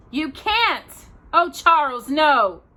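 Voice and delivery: high, loud frightened plea; pleading. A narrator's reading. Ma begs Pa not to go down the well, high frightened plea. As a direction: beg him not to go.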